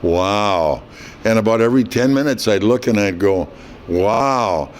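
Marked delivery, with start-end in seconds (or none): 0.0-0.8 long, drawn-out stunned wow; speechless awe. Retold or imitated. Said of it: "I was still pretty speechless". 3.9-4.7 drawn-out, dumbfounded wow; speechless awe. Retold or imitated. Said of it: "I was still pretty speechless".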